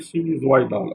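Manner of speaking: "sinusoïdal" read with wa, as if no tréma; wrong reading. Shown as a demonstration. Teacher showing the reading without the tréma. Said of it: "si on met pas le tréma".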